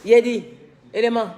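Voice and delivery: loud call with a laugh. Real, not acted. Calling out to a worker, laughing loudly. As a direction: shout the name through a laugh.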